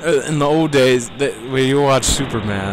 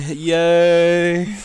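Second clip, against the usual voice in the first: excited cheer; 7 semitones higher than usual. Acted. Mock cheer for the episode.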